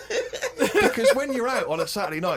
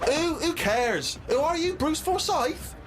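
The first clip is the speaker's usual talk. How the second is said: mock scornful girlfriend; 12 semitones higher, much slower than usual. Girlfriend dismisses him mockingly.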